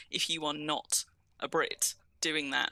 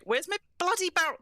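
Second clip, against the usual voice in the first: higher, frustrated grumble at a missing thing; comic exasperation, pitch jumping up; mild exasperation; 13 semitones higher, 4 dB louder than usual. Real, not acted. Player searching for a lost barrel, mildly exasperated. Hunting for a lost item in game.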